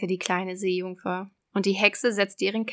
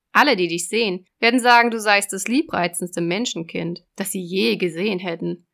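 loud, raised sea witch; 5 dB louder than usual. Acted. Witch voice in fairy tale.

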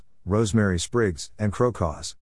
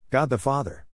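a higher, eager "God the Father!"; excited exclamation; 5 semitones higher than usual. Acted. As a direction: blurt it out in a rush of discovery. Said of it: "she exclaimed".

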